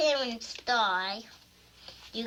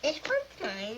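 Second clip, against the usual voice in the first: crying; 4 semitones higher than usual. Real, not acted. Kids fighting over toy feet.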